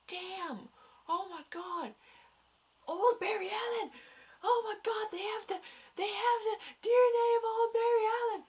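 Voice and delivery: very high, squealed disbelief; fangirl squeal. Retold or imitated. Viewer reliving the episode's twist, high fangirl squeal. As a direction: squeak it out, overwhelmed, as if retelling a shock. Retold overwhelmed fan reaction.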